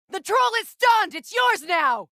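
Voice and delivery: called out across the fight; battle shout. Acted. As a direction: shout it to your ally mid-battle. Combat callout to Kratos.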